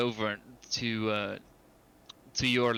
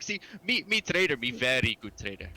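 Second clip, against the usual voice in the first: dumb troll voice. Acted. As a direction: play a simple-minded troll hawking goods. Troll names himself trader.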